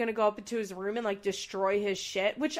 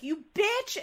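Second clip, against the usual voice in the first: mock yell; 10 semitones higher, 3 dB louder than usual.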